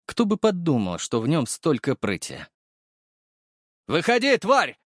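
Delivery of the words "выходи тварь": "тварь!" flung out hard, falling at the end; a gunman calling the hero out; menacing yell. A narrator's reading. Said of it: "раздалось совсем близко".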